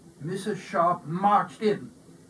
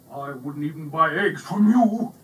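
mild bully voice; 7 dB louder than usual. A narrator's reading. Bully insults Simon.

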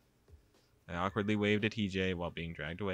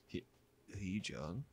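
weak, much softer voice, barely calling out; feeble call; 9 dB quieter, slower than usual. Acted. Heejay calling his friend feebly from behind her. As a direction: call out feebly, almost no strength. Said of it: "called me in a feeble voice".

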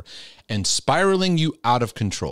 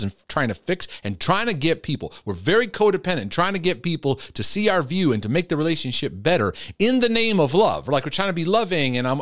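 worked up, higher-pitched insistence; near yelling; 6 semitones higher than usual. Real, not acted. Counselor urging codependent people to stop carrying relationships, worked-up near yell. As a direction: get carried away, pushing the voice up. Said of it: "Why am I yelling?".

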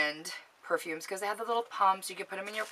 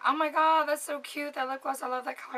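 put-on gushing girlfriends; 9 semitones higher than usual. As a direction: mimic an envious friend cooing. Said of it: "my girlfriends will be like".

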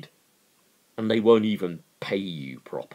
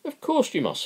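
much higher, mock-genial reply; affable; faster than usual. Capitalist answering hungry workers, mock-affable and high. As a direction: sound falsely friendly and obliging. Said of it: "said the capitalist affably".

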